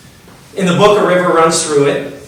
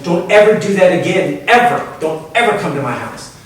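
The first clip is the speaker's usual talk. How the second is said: berating scold; 5 semitones higher than usual. Retold or imitated. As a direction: scold him like a naughty child. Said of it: "kind of berating him like a kid".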